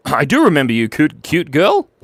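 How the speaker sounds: put-on playful, loud Scottish accent. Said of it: "my Scottish accent is reasonable".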